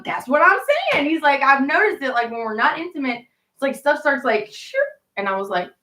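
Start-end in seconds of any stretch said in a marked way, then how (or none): 0.0-4.8 mock friend voice. Friend explaining.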